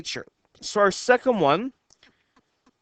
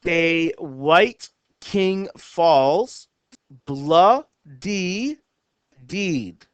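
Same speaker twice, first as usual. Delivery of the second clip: poem reading; much slower than usual. Shown as a demonstration. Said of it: "reads haiku line".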